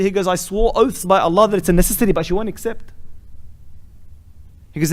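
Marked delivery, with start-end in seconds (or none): 0.3-2.9 higher, louder insistent retelling; emphatic protest. Retold or imitated. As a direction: protest it like an exasperated husband. Acted husband protesting to the doctor.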